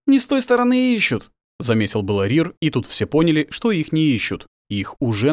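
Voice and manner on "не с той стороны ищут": sharp high alarmed cry. Acted. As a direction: blurt it out in alarm. Alarmed remark.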